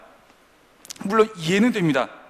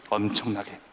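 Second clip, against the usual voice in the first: soft echo; 9 semitones lower, 7 dB quieter than usual. Shown as a demonstration. Quiet repeated emphasis.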